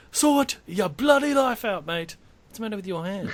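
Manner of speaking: high, loud mock scolding; hammed-up high-pitched outrage at a mate; mock telling-off. Ribbing a co-host over his hand, mock telling-off.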